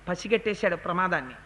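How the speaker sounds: ordinary talk, nothing marked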